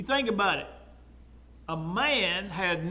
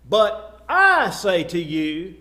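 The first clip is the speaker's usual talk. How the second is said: "I" drawn out and punched louder; stress on I; 3 semitones lower, 5 dB louder, slower than usual. Retold or imitated. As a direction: slowly, lean hard on the word "I". Jesus quoted claiming own authority.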